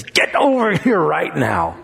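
teasing mother calling gently; playful call. Shown as a demonstration. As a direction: coax the kid over with a laugh. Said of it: "she can get a whole different response".

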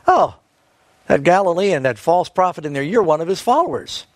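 mock the man as a follower of the false prophet; mocking girl. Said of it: "asked him mockingly".

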